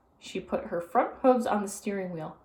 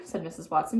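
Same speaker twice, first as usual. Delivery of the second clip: plain reading voice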